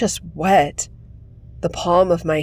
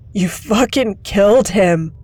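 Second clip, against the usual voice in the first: angry accusation; 3 semitones higher, 5 dB louder than usual. Acted. Grieving kid accuses the leader.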